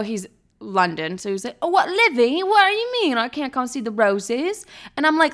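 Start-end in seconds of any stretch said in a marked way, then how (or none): 1.6-4.7 high-pitched mock tantrum; put-on whiny outrage, pitched up; London's temper tantrum. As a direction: imitate him protesting indignantly. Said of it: "threw what I call a temper tantrum".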